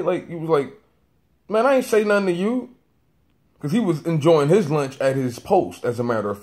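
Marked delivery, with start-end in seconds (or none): 1.5-2.7 high, loud, put-out retort; imitated annoyance. Security guard interrupted at lunch answers a stranger, annoyed. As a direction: act out the guard brushing you off. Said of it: "he responded to me a bit annoyed".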